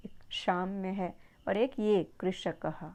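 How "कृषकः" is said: कृषकः with the ष curled back; slow कृषकः with a retroflex ष; retroflex sibilant. Shown as a demonstration. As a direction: twist the tongue back and up on the ष of कृषकः. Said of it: "जीभ को थोड़ा twist करना पड़ता है".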